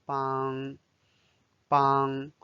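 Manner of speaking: 帮 held level in first tone; 帮 as a long level syllable. Shown as a demonstration. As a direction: keep the pitch of 帮 even to the end. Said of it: "帮 is the first tone".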